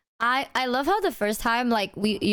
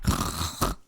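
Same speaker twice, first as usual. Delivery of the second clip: laughing; 5 semitones higher than usual. Real, not acted. Laughing while telling.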